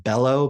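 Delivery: "bellow" with stress on the first part. Shown as a demonstration. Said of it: "B E L L O W".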